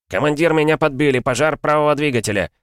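high, loud panicked call; alarmed radio cry. A narrator's reading. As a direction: shout it, engine on fire. Hit pilot radios in alarm.

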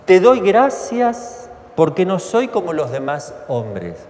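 slow, self-satisfied prayer voice; mock-pious boast; proud pharisee praying. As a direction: pray like a smug pharisee, drawn out. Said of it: "oraba así en su interior".

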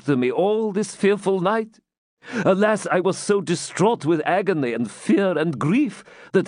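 a hint of a frightened elder begging; pleading old man. A narrator's reading. Jew pleads in the story.

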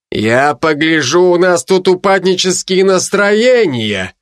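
slow, gloating mockery. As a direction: savour the threat, slowly. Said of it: "злорадно произнёс он". (злорадно, с издёвкой)

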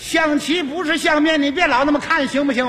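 pestering, exasperated prodding; impatient hurrying. Acted. Chess player rushing his stalled opponent, impatient. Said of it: "他这么一催呀".

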